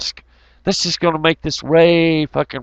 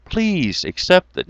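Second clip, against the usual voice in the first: mock salesman Lionel; 4 semitones lower than usual. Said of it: "And then Lionel says".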